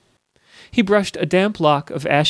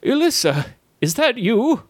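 surprised; 7 semitones higher than usual. A narrator's reading. Startled guildmaster recognises Elissa.

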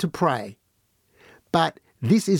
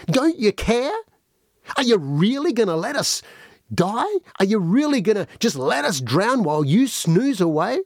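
panicked plea; 3 semitones higher than usual. Acted. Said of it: "they shook him roughly awake, and they said".

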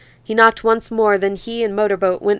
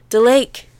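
amazed horror; 4 semitones higher, 3 dB louder than usual. Acted. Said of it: "in amazed horror from Motorboat".

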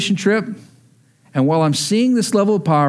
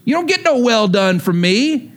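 voice of the Lord; 5 semitones higher than usual. Acted. The Lord answering.

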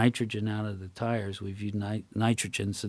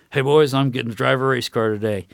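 loud, mock-eager announcement; Tom Cruise; 3 semitones higher, 6 dB louder than usual. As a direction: burst in bragging to the guys. Voicing Tom Cruise's boastful entrance.

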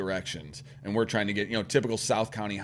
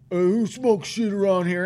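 higher, mock heckling call; put-on confrontational shout, moderately raised; imitated yelling; 9 semitones higher, 4 dB louder than usual. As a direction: imitate a guy yelling at a smoker. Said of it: "He's, like, yelling at him".

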